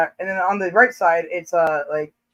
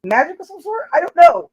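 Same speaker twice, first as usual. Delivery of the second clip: higher, hurried, half-laughing mock panic; flustered excuse; 6 semitones higher than usual. To the jealous husband, flustered higher excuse. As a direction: blurt it out like a caught fool. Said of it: "And I'm like".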